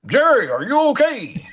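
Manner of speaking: put-on high, laughing Kid voice; sounding like Kid. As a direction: pitch it way up, laughing through it. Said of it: "why you have to sound like Kid?".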